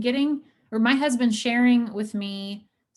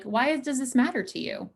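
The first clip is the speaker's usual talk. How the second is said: a gently raised, curious "Why does this matter to you?"; sincere why question; 4 semitones higher than usual. Shown as a demonstration. Therapist showing couples a sincere why question, gently curious. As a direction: ask it kindly, as a sincere question. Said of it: "even as sincere as it can be".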